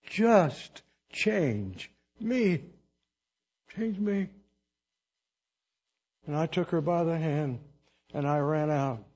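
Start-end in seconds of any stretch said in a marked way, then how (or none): 0.0-4.3 higher, then very slow, pleading change me; heartfelt cry. Retold or imitated. Preacher recalling his prayer, slow pleading cry. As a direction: beg to be changed, breaking. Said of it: "my cry from here on out".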